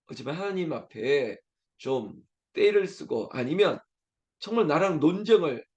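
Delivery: normal talking voice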